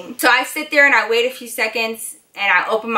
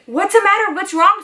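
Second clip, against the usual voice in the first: imitating mom's high, anxious questions; worried mom; 9 semitones higher than usual. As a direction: ask it high-pitched, alarmed for your child. Worried mom reacts to distressed daughter.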